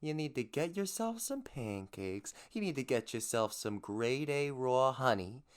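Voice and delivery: hammed-up salesman pitch; honey pitchman. Podcast host selling raw honey to listeners, pitchman voice. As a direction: sell it like a lightly put-on street hawker.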